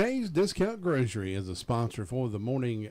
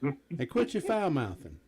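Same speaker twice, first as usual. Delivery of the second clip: slow, light hillbilly twang breaking into a laugh; barely put-on hillbilly, laughing through it; slower than usual. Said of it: "in my best hillbilly voice".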